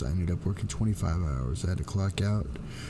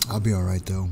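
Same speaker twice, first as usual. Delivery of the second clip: hoarse voice. Real, not acted. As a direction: voice going out, a bit rough. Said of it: "So my voice is going a little bit out".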